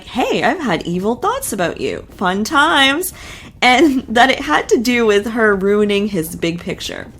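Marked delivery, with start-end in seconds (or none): 0.0-3.1 imitating a breezy, casual confession; mock nonchalant. Host mimicking husband's confession about evil thoughts, mock nonchalant. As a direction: toss it off lightly, mocking his casualness. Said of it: "it's so, like, nonchalant, just like".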